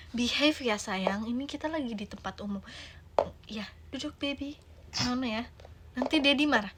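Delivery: soft coaxing mother; gentle mother. Acted. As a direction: soothe the toddler to sit. Gentle mother calms toddler. (ibu lembut membujuk balita)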